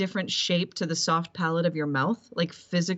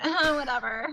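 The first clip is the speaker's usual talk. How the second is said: retold dismissal; 6 semitones higher than usual. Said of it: "And I went".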